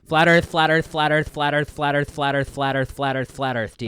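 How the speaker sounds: catchphrase chanted in the put-on Blake voice; Blake voice demo. Shown as a demonstration. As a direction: repeat it run-on in your silly social-media voice. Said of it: "Say it five times".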